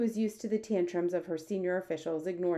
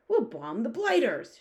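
slow, louder, higher military bluster; acted shout; 5 semitones higher, 5 dB louder, slower than usual. A narrator's reading. Air Force head urges bombing the giants, shouting. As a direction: shout it as a battle proposal. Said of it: "shouted the head of the Air Force".

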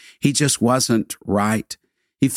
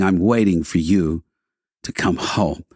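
soft and tender; 4 semitones lower than usual. Retold or imitated. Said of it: "Softly, tenderly".

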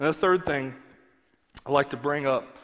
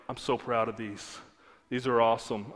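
put-on proud old lady; 7 semitones lower, 4 dB quieter than usual. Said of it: "And she was like".

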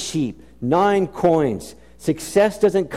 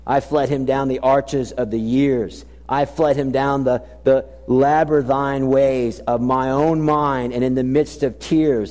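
poem recital; 3 semitones lower than usual. Shown as a demonstration. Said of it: "it's what he says".

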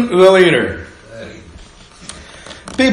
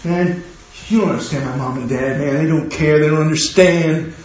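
mock teen complaint; 4 dB quieter than usual. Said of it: "Kids will tell other kids".

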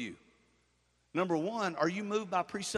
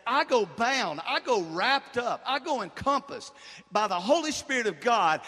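forceful preaching; 3 dB louder than usual. Acted. Preacher quotes Paul's resolve to the church, forceful preaching. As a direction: declaim the verse with punched key words. Preacher declaiming Paul and Job.

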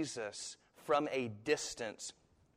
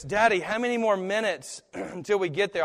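imitating young son; 5 semitones higher, 5 dB louder, faster than usual. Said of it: "Ty in the car will often say this".

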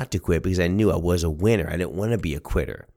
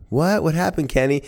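high-pitched puzzled question; grandmother; 9 semitones higher than usual. Retold or imitated. Grandmother asking grandson what happened, high and surprised. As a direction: ask as a startled Nana.

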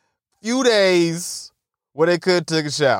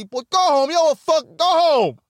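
hammed-up boss ordering him out; bossy manager; 11 semitones higher than usual. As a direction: play the boss sending a worker home. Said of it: "imagine the power as a boss".

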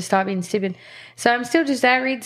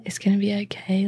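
soft reassuring whisper; 4 dB quieter than usual. Retold or imitated. Comforting him in hospital.

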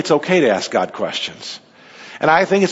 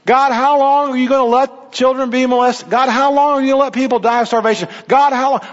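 raised, higher pleading lament; pleading question to God; 5 semitones higher than usual. Acted. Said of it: "Don't you and I have some of the same questions?".

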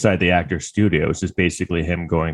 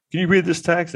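mock lawyer; 10 semitones higher than usual. Lawyer voiced in retelling.

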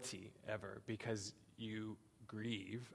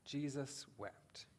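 softer repeat of Jesus wept, slow and falling; softer echo; 6 dB quieter, slower than usual. Shown as a demonstration. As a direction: echo the verse again, hushed. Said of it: "It says".

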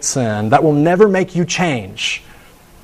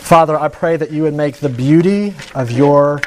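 hushed prayer fading to amen; closing prayer. Acted. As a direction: pray over the congregation gently.

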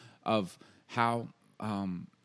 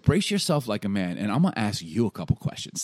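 louder, firm acted challenge; God; 5 dB louder than usual. God challenging Job, firm acted warning. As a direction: square up to him verbally. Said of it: "This is God".

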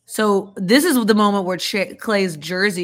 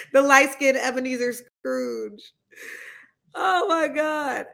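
shrieking laughter; 5 semitones higher than usual. Real, not acted. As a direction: laugh till you shriek. Cackling at Steph's outfit.

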